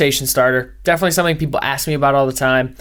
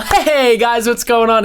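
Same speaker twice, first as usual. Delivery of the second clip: higher, brighter forced on-air greeting; fake cheerful DJ; 5 semitones higher, slower than usual. Heartbroken DJ hitting the on button, fake perky hello. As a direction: flip to a forced smile as the mic goes on. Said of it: "so you're already being fake".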